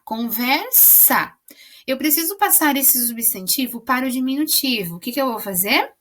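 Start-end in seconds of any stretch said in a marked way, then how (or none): 0.1-1.3 conversa drawn out slowly, leaning on the final sa; slow demo word. Shown as a demonstration. Teacher stressing the final syllable of conversa for pupils. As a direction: stretch conversa to show the last syllable. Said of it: "A sílaba final é sa".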